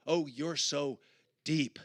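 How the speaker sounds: husband's teasing retort, lightly sarcastic; sarcastic comeback. Retold or imitated. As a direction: throw the word deep back at her. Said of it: "you know, and".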